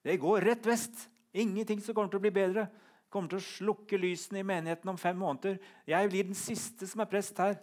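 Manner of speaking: high, loud, over-certain gloom; prophet of doom. Acted. Preacher voicing his own depressed thoughts, mock-prophetic outburst. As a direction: proclaim disaster with total conviction. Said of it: "vi får sånn profetisk kraft".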